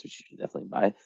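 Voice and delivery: breathy whispered plug; whispered aside. Real, not acted. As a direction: slip it in as a hushed aside. Plugging own book aside.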